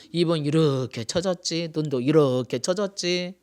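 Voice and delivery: slow, stretched 이렇게; drawn-out demonstration. Shown as a demonstration. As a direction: drag out 이렇게 to show the droop. Mimicking drooping old face.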